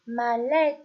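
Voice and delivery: "mallette" projected clearly; teacher calling out "mallette"; loud dictation. Shown as a demonstration. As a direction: dictate "mallette" with a falling tune. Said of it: "Je répète".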